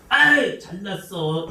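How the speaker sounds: sneering, mocking put-down; scornful husband mocking his wife; sarcastic jab. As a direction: scoff at him sarcastically. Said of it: "욕을 합니다".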